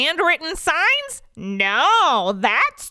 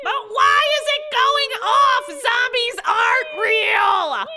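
very high, slow, stretched-out protest; shrieky insistence; slower than usual. Acted. Dennis insists zombies are not real, high wailing protest. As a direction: squeal the objection over the alarm. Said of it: "insists Dennis".

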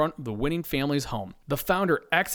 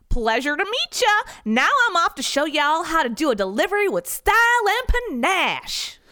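much higher, louder cowboy goodbye; cowboy founder; 4 dB louder than usual. Acted. Founder waving goodbye to staff, cowboy accent. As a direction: swagger out the door.

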